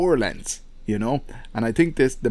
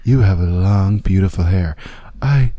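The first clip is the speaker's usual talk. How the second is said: lightly voiced seductive woman; breathy come-on, barely put on; female catfish voice; 4 semitones lower, 4 dB louder, slower than usual. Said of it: "your best female catfish voice".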